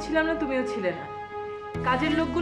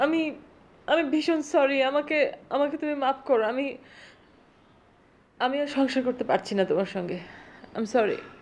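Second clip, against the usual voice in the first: tearful, crying while talking. Apologizing and asking forgiveness on a phone call: crying while talking. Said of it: "তুমি কাঁদছো কেন?".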